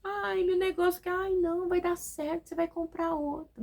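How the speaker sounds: high mock-dismissive whine; hammed-up high brush-off; mocking a friend. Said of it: "a pessoa".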